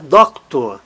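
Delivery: "Doctor" with DOC strong and tor falling away; stress on DOC. Shown as a demonstration. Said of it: "Átono".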